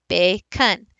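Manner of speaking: "bacon" split, stepping down in pitch on "con"; voice drops. Shown as a demonstration. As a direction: let the voice fall on the second syllable of "bacon". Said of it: "My voice drops".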